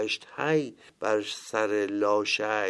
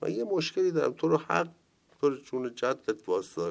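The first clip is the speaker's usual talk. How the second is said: pleading chaser; 5 semitones higher than usual. Acted. Man begs Jesus to stop.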